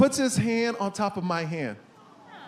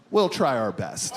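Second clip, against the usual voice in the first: low, slow grave reassurance; grave doctor; 9 semitones lower than usual. Retold or imitated. Doctor gravely tells the patient, low and slow. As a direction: say it low and slow like bad news. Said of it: "looks me straight in the eye and goes".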